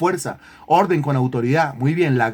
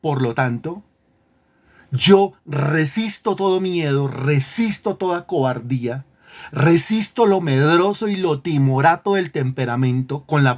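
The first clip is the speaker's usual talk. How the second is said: firm command to the soul. Shown as a demonstration. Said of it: "al alma hay que decirle".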